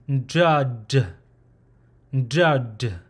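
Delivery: "ndud" with an N before the D; tongue behind the upper teeth for "ndud"; nasal closed syllable. Shown as a demonstration. Teacher saying how you pronounce it, demonstrated nasal-onset pronunciation. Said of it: "how you pronounce is".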